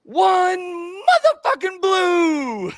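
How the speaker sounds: high, loud, slow sideline call; deadpan coach call. Retold or imitated. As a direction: bark it slowly at the sideline. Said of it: "looks at the sidelines and goes".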